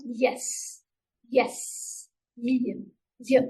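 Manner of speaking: y with the middle of the tongue pushed up; y sound demo. Shown as a demonstration. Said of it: "push the middle of your tongue up".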